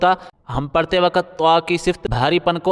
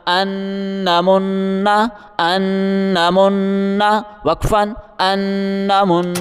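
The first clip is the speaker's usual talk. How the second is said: slow drawn-out reading; much slower than usual. Shown as a demonstration. Teacher slowly reading for the class. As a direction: stretch ان من slowly and evenly.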